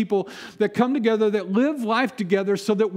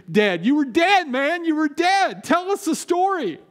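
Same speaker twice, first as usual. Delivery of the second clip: excited friends. Retold or imitated. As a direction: pester him like thrilled old friends. Friends excitedly quiz Lazarus.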